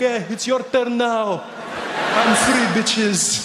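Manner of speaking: put-on lightly accented smug taunt; a hint of the passenger gloating; gloating Pakistani voice. Pakistani passenger taunting the comedian, light accented gloat.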